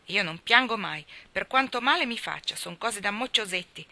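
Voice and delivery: put-on girlish pride, chin up; proud. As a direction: boast that she never cries. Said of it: "disse Nan con orgoglio".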